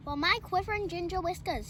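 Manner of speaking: puffed from the climb; cat out of breath up the tree; puffing cat. Acted. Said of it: "he puffed".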